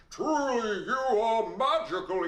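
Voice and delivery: high, excited king proclaiming; the king's voice. Acted. King marvels at the gold, high and excited. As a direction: boom it out like a thrilled king. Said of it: "That's his voice".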